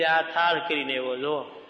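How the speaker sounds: mocking sing-song tease; sing-song mockery. A proud host mocks a poor devotee's plate, singsong sneer.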